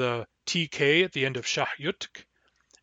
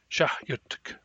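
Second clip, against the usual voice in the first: fluent speed; 5 dB quieter than usual. Shown as a demonstration. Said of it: "At fluent speed".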